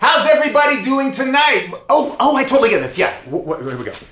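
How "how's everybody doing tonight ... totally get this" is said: very high, full, crowd-style shout. Answering a demand to shout a rock show greeting: shouting. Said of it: "I need for you to shout".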